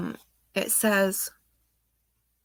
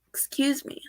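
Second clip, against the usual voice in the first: whispered apology; 5 semitones higher, 3 dB quieter than usual. Real, not acted. Composing herself mid-reading.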